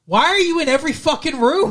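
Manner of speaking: high-pitched, animated exasperation; exasperated. Real, not acted. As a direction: demand it in disbelief at someone's intrusion. Mock outrage at intruding aunt.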